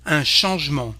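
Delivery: "changement" as "shonzh-mon"; silent middle E. Shown as a demonstration. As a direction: drop the E between G and M in "changement". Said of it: "We don't pronounce this E".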